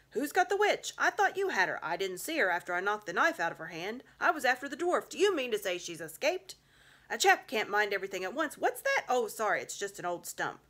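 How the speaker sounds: excited rescuers. Acted. Rescuers searching for the lost witch, loud flustered chatter. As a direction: blurt questions in the chaos of the fight.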